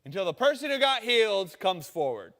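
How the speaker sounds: Jesus won't budge an inch; stubborn Jesus. Retold or imitated. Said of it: "he's like".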